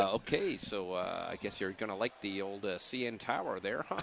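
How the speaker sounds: low, soft Canadian impression; Dan Aykroyd. Comedian attempts Canadian via comic actor, soft impression. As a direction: keep it quiet, low and Canadian. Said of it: "just pretend I'm Dan Aykroyd".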